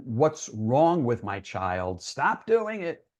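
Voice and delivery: slow, exasperated scolding, pitch jumping up at the end; stern parent demanding it stop; harsh parent. Retold or imitated. Parent scolding a teen who self-harms, slow and exasperated. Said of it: "Rather than".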